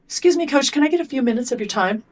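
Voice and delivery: a hint of a young athlete approaching his coach; kid asking the coach. Shown as a demonstration. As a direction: play the nervous athlete, asking politely. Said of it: "So I'll go".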